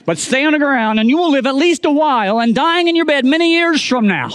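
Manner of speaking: rally the friend like a film hero, half in jest; hammed-up Braveheart speech. Pastor quoting Braveheart to push Scott up the pole, hammed-up rallying speech. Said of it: "We quoted scenes from Braveheart".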